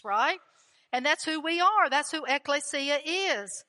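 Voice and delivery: building, emphatic preacher's cadence; preaching. Acted. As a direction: drive each line home to the church. Preaching to the congregation.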